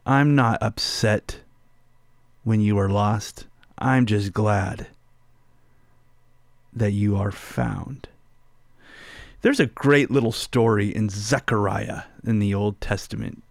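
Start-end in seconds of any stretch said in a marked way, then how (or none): 0.0-8.1 gentle reassurance. Acted. Preacher echoing God's reassurance.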